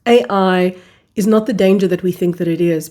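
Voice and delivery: usual speaking voice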